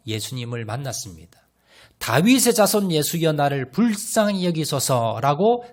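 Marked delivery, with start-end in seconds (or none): 2.0-5.6 crying out. Acted. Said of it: "그가 부르짖었습니다".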